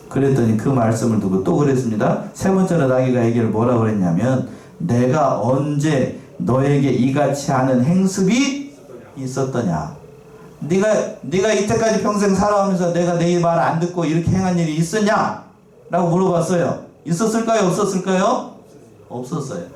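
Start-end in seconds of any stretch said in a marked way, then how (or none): 4.8-13.6 very slow, weighty question, falling at the end; slow donkey's question. Acted. Preacher voicing the donkey's question to Balaam, very slow. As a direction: ask it slowly, as the hurt donkey.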